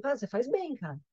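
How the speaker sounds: dry ironic praise; irônico. Retold or imitated. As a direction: say it meaning the opposite. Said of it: "Ele tá sendo irônico". (tom irônico, dizendo o contrário)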